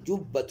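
"جبة" with a firmly doubled b. Shown as a demonstration. Teacher corrects the student's reading of جبة, doubled b. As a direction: hold the b in "جبة". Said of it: "هو بالتشديد".

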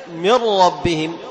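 very slow, "من ربهم" with the ن fully gone into a doubled ر and no nasal hum; slow recitation demo. Shown as a demonstration. Teacher contrasting the second example for students, very slow recitation. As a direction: say "من ربهم" as mir-rabbihim, no ghunna. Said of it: "في المثال الثاني".

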